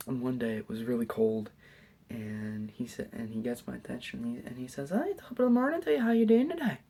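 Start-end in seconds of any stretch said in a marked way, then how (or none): 4.9-6.8 high, loud, quick Irish greeting; Irish accent. Retold or imitated. Janitor greets student on a cold morning, Irish accent. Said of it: "the story about the Irish accent".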